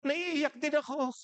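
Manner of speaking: high, drawn-out fake crying; mock wailing. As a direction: wail it comically, imitating a tearful bystander. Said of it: "Nag-iiyakan sila". (kunwaring humahagulgol)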